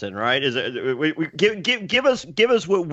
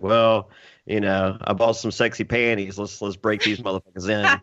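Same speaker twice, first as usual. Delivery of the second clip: mock sultry Hannah; 7 semitones lower than usual. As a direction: drop the voice low and drag it out, teasing. Mocking Hannah's new sexy side.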